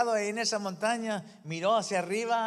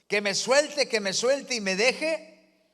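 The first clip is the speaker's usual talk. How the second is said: grito incrédulo; 6 semitones higher, 4 dB louder, slower than usual. Retold or imitated. Jack repeating in disbelief.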